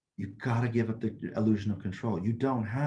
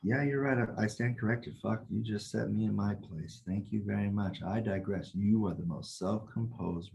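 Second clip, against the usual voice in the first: sarcastic concession; 4 dB quieter than usual. Retold or imitated. Teacher's sarcastic reply to angry lady.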